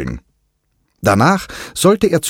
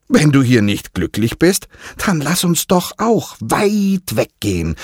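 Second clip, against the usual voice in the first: understanding; 8 semitones higher than usual. Acted. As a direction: comfort the boy kindly. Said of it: "entgegnete verständnisvoll Kiki".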